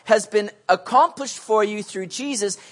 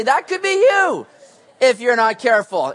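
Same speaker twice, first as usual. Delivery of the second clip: stern warning; 3 semitones higher, 5 dB louder than usual. Retold or imitated. Warning kids beside dead squirrel.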